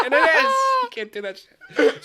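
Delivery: words squeezed out through laughter, high and loud; laughing while talking. Real, not acted. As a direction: keep laughing through the line. Still laughing at the story.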